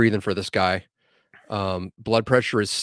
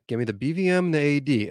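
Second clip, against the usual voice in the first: calm, controlled instruction; retold composed order; calm request; 4 semitones higher, faster than usual. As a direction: ask for it evenly, without raising your voice. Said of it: "I was calm. I said it just like that".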